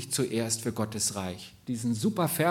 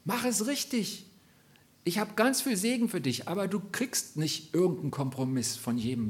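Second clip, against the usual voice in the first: Gottes Stimme; 4 semitones higher than usual. Retold or imitated. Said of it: "sondern er sagt".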